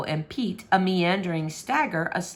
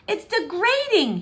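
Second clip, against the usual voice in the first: grumbling; 12 semitones higher, 3 dB louder than usual. Acted. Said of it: "he grumbled".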